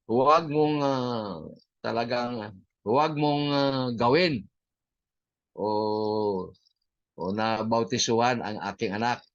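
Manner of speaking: imitating an enraged father forbidding it; angry father's warning. Preacher retelling the furious father forbidding his daughter's baptism, mild mock anger. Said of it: "parang galit na galit".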